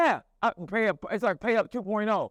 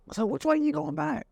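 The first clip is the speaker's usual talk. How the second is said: high, put-on prying voice; passive-aggressive stranger; 10 semitones higher than usual. Local man asking a biker his route, passive-aggressive stranger. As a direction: ask it in a raised local-man voice. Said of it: "that passive aggressive rate".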